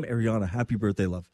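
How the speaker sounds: normal talking voice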